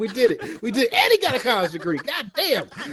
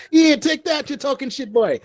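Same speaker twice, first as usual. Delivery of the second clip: put-on Southern accent; 9 semitones higher than usual. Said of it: "It's not even your accent".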